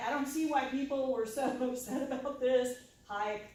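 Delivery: unimpressed reader. Retold or imitated.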